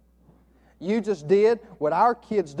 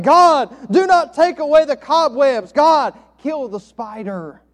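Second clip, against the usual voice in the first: a mild, firm pastor's command, slowing on kill the spider; forceful prayer; 8 semitones higher, 10 dB louder, slower than usual. Retold or imitated. Pastor interrupting the praying man, forceful. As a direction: cut him off and command it. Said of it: "in a more forceful tone".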